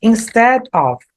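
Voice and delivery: Instead of with the of ending in a V sound; slow, clear Instead of, of said like ov; careful pronunciation. Shown as a demonstration. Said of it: "ele não tem som de F".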